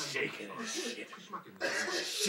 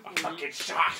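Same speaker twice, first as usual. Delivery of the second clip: higher, louder sudden-danger reveal; spring the shark on them; hammed-up shock; dramatic alarm; 7 semitones higher, 8 dB louder than usual.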